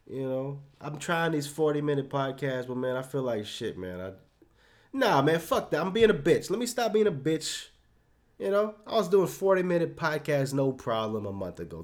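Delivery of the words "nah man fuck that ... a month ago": louder and higher, snapping at himself; self-scolding outburst. Real, not acted. Podcaster berating himself mid-recording for being weak, loud self-scolding. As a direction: shake yourself out of it, raised and sharp.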